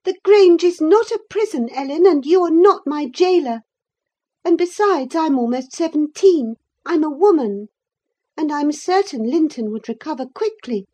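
very high, loud, spirited retort; proud and teasing; defiant girl. A narrator's reading. Catherine defying Ellen, her nurse, high and loud.

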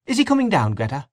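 high-pitched call, dropping on the name. A narrator's reading. Mary Jane calling up to Greta, high cry. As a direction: call the question up the staircase. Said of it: "she cried".

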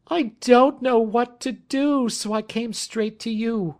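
helpless and upset, pitch way up; frightened caller's high voice; distressed Kate. A narrator's reading.

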